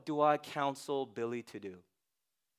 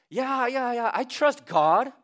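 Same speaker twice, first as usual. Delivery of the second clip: breezy, offhand yeah yeah, slow at the end; casual dismissive yeah; 6 semitones higher, slower than usual. Retold or imitated. Pastor mimics counselees brushing off trust, offhand. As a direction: brush it off like a lip-service believer. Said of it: "they talk like that".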